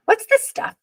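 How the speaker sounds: put-on very high, wondering kid's voice; curious little boy. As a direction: poke at it like a puzzled child. Boy finds corn silk.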